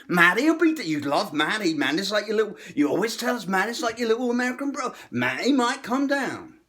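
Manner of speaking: high, loud mock-Italian hard sell; Italian Brooklyn pressure. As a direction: lean on him like a wiseguy. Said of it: "giving me the Italian".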